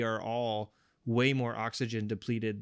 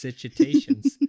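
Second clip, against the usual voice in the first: slow, louder bulldog-style title call; English bulldog voice; 2 semitones higher, 9 dB louder, much slower than usual. Pretend. Host calling the segment name for his co-host, in a slow loud bulldog voice. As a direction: stretch it out and boom it like a bulldog. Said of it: "English bulldog".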